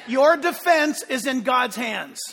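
loud, slow preaching shout; emphatic proclamation. Real, not acted. A preacher proclaiming to the congregation in a loud, slow shout. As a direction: drive the line home to the church. Preacher repeats the key line.

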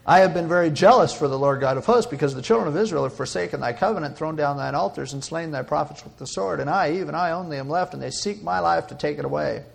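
loud opening, then rattled-off recital; rehearsed speech. Acted. Elijah repeating his earlier speech to God, rehearsed. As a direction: recite it like an old grievance, pitched low. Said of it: "Let me rehearse it for you again".

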